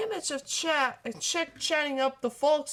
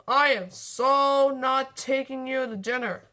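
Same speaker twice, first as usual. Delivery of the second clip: grumbling; 6 dB louder than usual. Acted. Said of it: "he grumbled".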